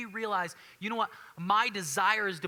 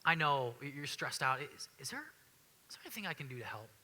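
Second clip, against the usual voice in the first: gentle to wife; 3 semitones lower, 6 dB quieter than usual. Retold or imitated. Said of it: "you go".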